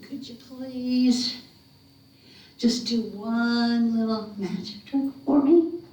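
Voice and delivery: slow, drawn-out sweet coaxing; acted wheedling child; pleading boy. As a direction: beg sweetly, stretching the words. Wiley coaxes the hairy man.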